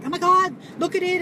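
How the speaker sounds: high, loud amazed cry; neighbor's alarm. Retold or imitated. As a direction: gawk at the bug. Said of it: "So she's like".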